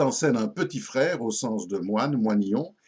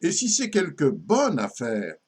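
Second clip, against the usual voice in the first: satirical ballad recitation. Acted. Récite une ballade satirique à refrain. (ballade satirique déclamée, refrain plus grave)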